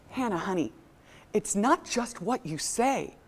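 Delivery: soft, measured mock patience; calm mother. Mom correcting her teenage daughter, very calmly. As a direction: explain it with controlled, gentle calm. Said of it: "looked at her very calmly".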